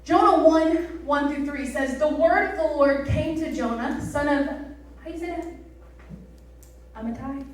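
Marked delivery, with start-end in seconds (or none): 2.0-7.4 scripture reading. Acted.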